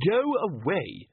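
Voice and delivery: slow, exasperated shout; angry shout. A narrator's reading. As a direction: bellow at the pest. Ridcully shouts.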